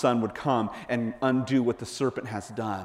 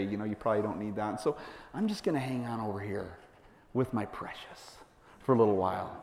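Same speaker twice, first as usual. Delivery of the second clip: much softer, fast, then hushed and possessive; mock secretive murmur; 4 semitones lower, 10 dB quieter than usual. Person clinging to a pet sin, hushed and possessive. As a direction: hug the secret like my precious.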